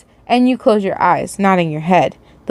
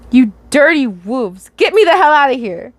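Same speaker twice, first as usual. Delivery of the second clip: misread line; 4 semitones higher than usual. Real, not acted. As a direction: read it with "wolves" in place of "whores". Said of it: "Did I really read that as wolves?".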